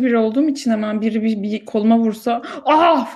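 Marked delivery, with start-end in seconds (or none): 2.6-3.1 short, higher, louder mock "Ah!" of pain; mock wince. Whiny sibling reacting to a tap on the arm with a mock yelp. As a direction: yelp as if lightly hit on the arm. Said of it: "falan oluyorum".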